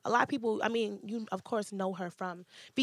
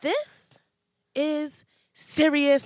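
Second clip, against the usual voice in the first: mock serious; 5 semitones higher, 6 dB louder, much slower than usual. Mock serious then laughs.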